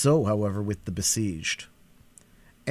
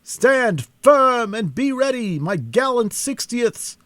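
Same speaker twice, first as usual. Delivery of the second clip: high, loud and slow command; rally the troops from the walls; commanding exclamation; 13 semitones higher, 7 dB louder, slower than usual. A narrator's reading. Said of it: "suddenly exclaimed a voice above them".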